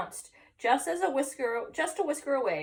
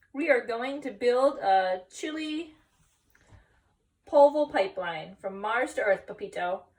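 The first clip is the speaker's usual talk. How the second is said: small dog voice; 2 semitones higher, 5 dB louder than usual. Acted. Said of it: "said Paquito Tito".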